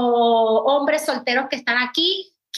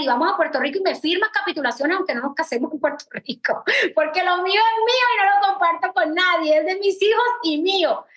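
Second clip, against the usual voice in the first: laughing while quoting herself; 4 semitones higher than usual. Retold or imitated. Telling her husband she keeps her own money, laughing. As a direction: laugh it out, half-joking but firm. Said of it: "Y yo le dije a él".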